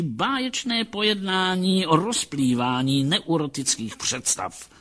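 lively acted doctor, swinging up in pitch; a touch of grandiose professional zeal; rapt psychologist. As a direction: announce the cure with growing relish. Psychologist announces the cure.

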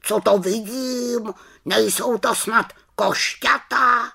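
high, amazed bird voice; astonished raven. Acted. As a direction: ask high, in wonder, as the raven. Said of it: "zvolal Abraxas".

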